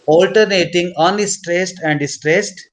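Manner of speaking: slow, evenly spaced words; slow dictation. Real, not acted. Teacher giving students the next words to write, slow dictation. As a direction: dictate slowly, word by word.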